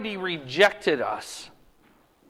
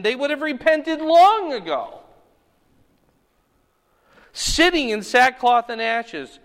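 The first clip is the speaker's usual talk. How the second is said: solemn woe; 3 dB louder than usual. Acted. Preacher reading Jesus' woe aloud.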